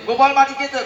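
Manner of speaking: high, loud tattling cry; excited children shouting together. Acted. Children rushing to tell mother, shouting all at once. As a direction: shout it out like a gang of boys telling on him. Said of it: "সবাই একসঙ্গে বলছে".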